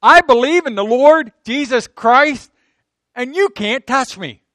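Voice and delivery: loud, high, drawn-out proclamation; bold declaration. Acted. Preacher voices a believer defying the enemy, bold declaration. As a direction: declare it slowly at full preaching force. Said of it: "That's a holy boldness".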